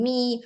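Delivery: "me" with a full ee vowel; sounded E. Shown as a demonstration. Teacher gives learners an exception, sounded E. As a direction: let the ee ring in "me". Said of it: "you really pronounce the E sound".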